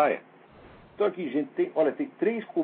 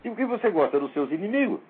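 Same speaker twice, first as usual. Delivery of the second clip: exasperated outburst; 3 semitones higher than usual. Retold or imitated. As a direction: vent the frustration. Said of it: "Eu digo". (explosão exasperada)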